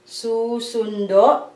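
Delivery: susundo said slowly, syllable by syllable; slow teacher's demo of susundo; slow demonstration. Shown as a demonstration. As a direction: spell out susundo slowly for the class. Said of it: "susundo only".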